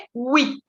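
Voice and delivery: "Huit" starting like oui, ending on T; silent H. Shown as a demonstration. Teacher showing French eight, silent H. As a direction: say "Huit" with no H sound. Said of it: "La H en francés siempre es muda".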